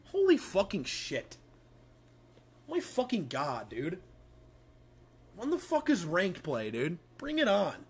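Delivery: loud high hyped bro brag; frat bro. Pretend. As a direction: shout it like a cocky bro. Hyped mock gamer bro bragging.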